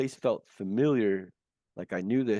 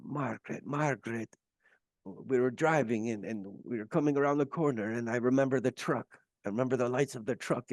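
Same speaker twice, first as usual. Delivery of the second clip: lightly imitated older Scottish gentleman; hint of a Scottish accent, calling for someone; 3 semitones higher than usual. Dead man calling out to his wife, light imitated Scottish accent. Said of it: "he had a Scottish accent".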